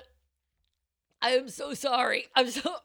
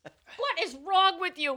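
laughing; 6 semitones higher, slower than usual. Real, not acted. Laughing after the spill.

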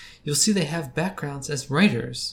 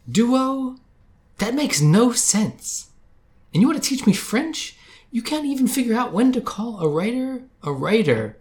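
angry shouting; 9 semitones higher, 4 dB louder than usual. Acted. Yelling at Duo on call.

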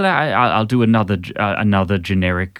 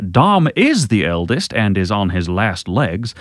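put-on generic Southern accent. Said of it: "generic Southern accent".

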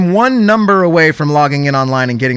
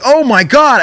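excited relief; 8 semitones higher, 4 dB louder than usual. Retold or imitated. Caller relieved to get through.

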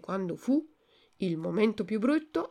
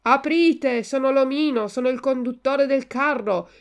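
loud, raised, threatening order; commanding shout; 5 semitones higher, 7 dB louder than usual. Acted. Cart driver demands the boys open up, loud menacing command. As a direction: call out imperiously through a door.

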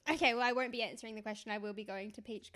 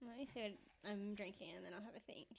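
unvoiced, whispered aside; whispering; 12 dB quieter than usual. Real, not acted. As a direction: whisper it under your breath. Quiet aside while drinking.

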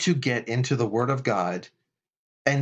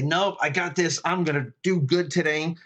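higher, cocky self-assured boast; 4 semitones higher than usual. Retold or imitated. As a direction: brag like the proud self. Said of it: "the self wants to say".

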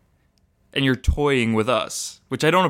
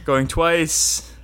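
slow, drawn-out auction call; auctioneer; 3 semitones higher, much slower than usual. Pretend. Auction close, going once twice.

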